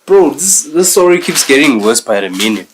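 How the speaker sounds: loud, high burst of disbelief; shocked outburst. Real, not acted. Reactor hit by a twist, shocked outcry. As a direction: blurt it out in shock.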